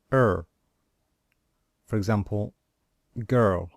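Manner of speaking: teacher modelling short vowels one by one; model vowel drill. Shown as a demonstration. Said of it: "And this one is".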